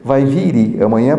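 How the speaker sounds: vir said as viri, with an extra vowel; European Portuguese. Shown as a demonstration. Teacher imitates the European Portuguese solution for the class. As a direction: add an i after vir, European Portuguese style. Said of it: "A solução deles".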